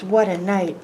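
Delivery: mole grumbles under his breath, lightly voiced; muttering mole. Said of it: "Mole mutters".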